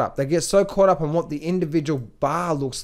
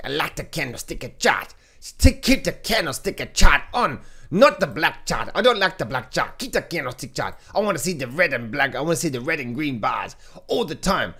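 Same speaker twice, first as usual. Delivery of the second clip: lightly hammed-up demanding viewer; mock whiny trader. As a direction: parody a trader craving candles. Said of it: "mimicking candlestick fans".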